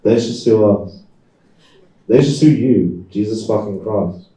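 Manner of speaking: wife losing patience with him on the phone; ranting wife. Acted. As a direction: bite each sue off hard.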